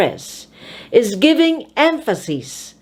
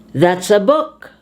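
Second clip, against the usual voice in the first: "book" rising in pitch; stress on BOOK. Shown as a demonstration. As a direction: raise the voice on the noun "book". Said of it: "raise your voice on the noun".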